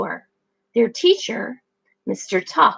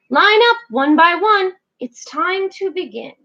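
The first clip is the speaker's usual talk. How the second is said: teacher calling the class, louder; 6 semitones higher, 3 dB louder than usual. Acted. Mister Tux calling the young penguins, loud call. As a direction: call the line to order. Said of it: "Mister Tux called out".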